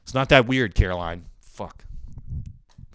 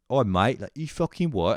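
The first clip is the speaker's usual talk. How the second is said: mock Cockney, pitched up; Cockney accent; 3 semitones higher than usual. Imitating frat homies quoting Peaky Blinders, mock Cockney. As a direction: put on a playful Cockney. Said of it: "the Cockney accent".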